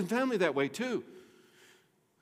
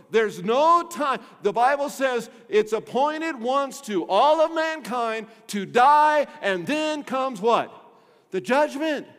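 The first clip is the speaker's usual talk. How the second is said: loud, slow, hammering preacher's warning; preaching at full force; 4 semitones higher, 7 dB louder, slower than usual. Acted. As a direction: thunder it from the pulpit, slowly. Preaching peak about judgment.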